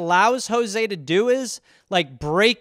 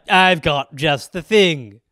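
slow, lightly voiced billionaire; drawn-out line as an eccentric billionaire; eclectic billionaire; 3 semitones lower, 3 dB louder, slower than usual. Eccentric billionaire springs an absurd choice on him, lightly voiced. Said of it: "this eclectic billionaire who's like".

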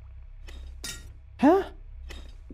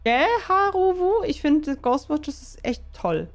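high, sing-song fake praise; mock cheerful voice; 5 semitones higher, slower than usual. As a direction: chirp it like a sugary ad. (gespielt fröhliche Stimme)

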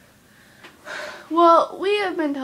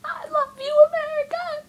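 mock declaration. Mock grand address to America.

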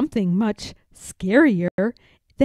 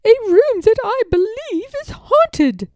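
higher, firm governess voice; emphatic Miss Clavell; 12 semitones higher, 4 dB louder than usual. A narrator's reading. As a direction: announce the haunting with conviction. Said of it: "her voice emphatic".

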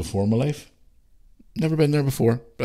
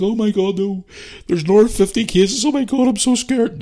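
high, mock-panicked mum voice, much higher; panicky mum; 12 semitones higher, 4 dB louder than usual. Son mimicking his scared mum over covid cases, high mock panic. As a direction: imitate a frightened mother fretting over case numbers. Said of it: "she'd have been like".

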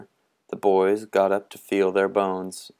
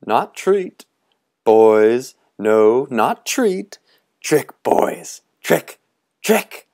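booming, much louder cry of trick; roaring challenge; 5 semitones higher, 7 dB louder, slower than usual. Acted. Tall man roaring at the boys, booming. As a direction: roar it out with wild glee.

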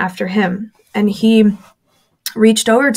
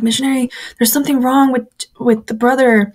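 panicked; 3 semitones higher than usual. Retold or imitated. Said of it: "I'm panicking".

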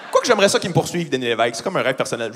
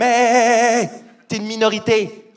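raised, drawn-out "hey"; mock rebuff; 5 semitones higher, slower than usual. Comedian answering a complaining spectator after the show, mock rebuff. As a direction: cut her off with a hammed-up put-down.

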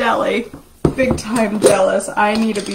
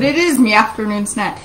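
a touch of Irish brogue, a little louder; mock Irish lilt on "me"; Irish accent; 5 dB louder than usual. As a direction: lean lightly into an Irish accent. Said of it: "Irish accent or Scottish or whatever".

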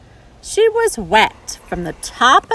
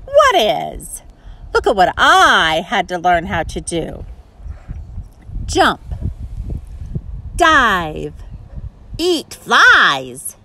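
frog voice; 3 semitones higher than usual. Acted.

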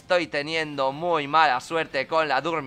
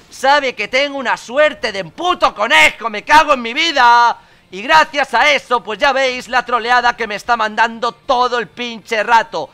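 loud, raised-pitch venting; exasperated rant; 6 semitones higher, 8 dB louder than usual. Real, not acted. Gamer complaining he is being trolled, exasperated rant. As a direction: rant at full tilt about rotten luck.

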